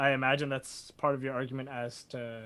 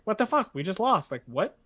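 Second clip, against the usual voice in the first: panicked disbelief; 8 semitones higher, 5 dB louder than usual. Retold or imitated. Convict panics at lost verdict.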